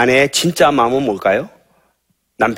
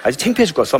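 nagging wife; 4 semitones higher than usual. Shown as a demonstration. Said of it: "이게 사망의 말이에요".

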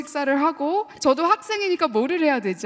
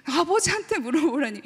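put-on puzzled child; 3 semitones higher than usual. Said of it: "어린 마음은".

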